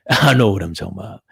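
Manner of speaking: tipsy giggle through the words; laughing while insisting. Real, not acted. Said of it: "I'm a little tipsy".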